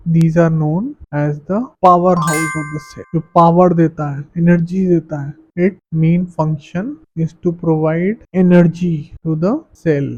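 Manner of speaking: very slow, even reading of notes; slow classroom dictation. Acted. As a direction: spell the definition out for students to copy. Dictates English definition.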